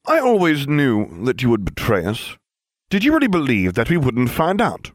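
spooky menacing tone from the shadows; eerie voice. Acted. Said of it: "measured footsteps and an eerie voice".

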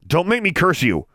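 put-on defiant girl. Girl threatening.

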